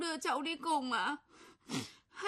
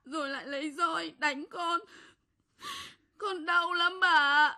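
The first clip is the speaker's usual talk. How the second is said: tearful complaint; 3 semitones higher, 4 dB louder than usual. Acted. Beaten child tells grandmother.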